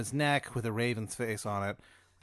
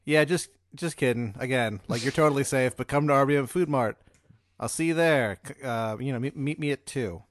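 playful note; 2 semitones higher, 6 dB louder than usual. Acted. GM reads the note's second side.

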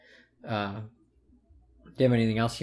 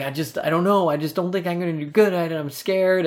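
retold anxiety; 6 semitones higher than usual. Retelling himself as a scared child.

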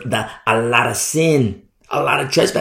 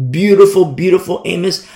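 much louder, admiring cry; loud exclamation; 5 semitones higher, 8 dB louder than usual. Real, not acted. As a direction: burst out with it. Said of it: "emphatic exclamation".

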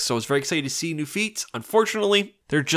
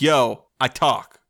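1 mock stone voice; much slower than usual. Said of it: "It's like".

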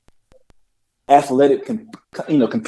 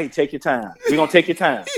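laughing mock coaxing. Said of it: "when we were talking about".

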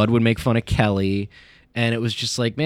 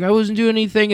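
high, whiny fake innocence; a bully's put-on innocent whine, pitched up; mock innocent bully; 11 semitones higher than usual. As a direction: play the bully pretending he did nothing. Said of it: "he's like".

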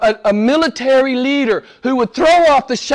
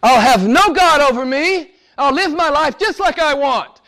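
defiant quote; 5 semitones higher than usual. Retold or imitated. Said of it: "It's what the psalmist says".

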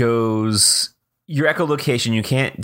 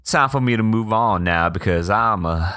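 lightly voiced campy host; a hint of a flamboyant showman; campy drag queen. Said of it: "Clem Clemens".

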